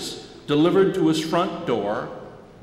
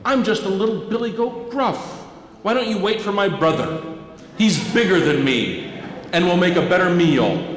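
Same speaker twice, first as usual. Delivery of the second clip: little goat pleading; 4 semitones higher than usual. Acted.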